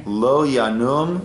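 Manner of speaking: measured, phrase-by-phrase psalm leading; slow prayer recitation. Real, not acted. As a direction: recite slowly for others to repeat. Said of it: "I'll say it slowly".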